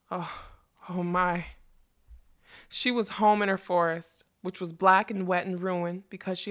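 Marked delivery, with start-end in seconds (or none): 0.1-1.5 slow, breath-taken amazement; awed wonder. A narrator's reading. Magician beholding the freed unicorn, awed. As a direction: let the words drift out in wonder.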